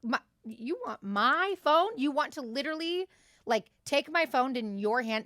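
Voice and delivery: outraged who-me surprise; indignant disbelief. Retold or imitated. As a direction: balk at the request. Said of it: "The fuck?".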